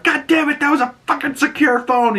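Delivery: high-pitched exasperated outburst; squawked retold complaint; mock exasperation. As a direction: imitate someone upset, voice jumping way up. Voicing outburst over thrown-away phone.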